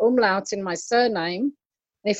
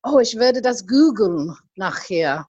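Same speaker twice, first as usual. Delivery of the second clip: German sentence. Retold or imitated. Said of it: "I've heard Germans say".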